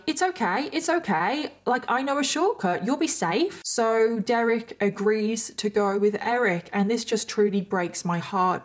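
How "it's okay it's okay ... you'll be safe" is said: high, coaxing, reassuring; lightly voiced persuading teen; coaxing older kid. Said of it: "He's like".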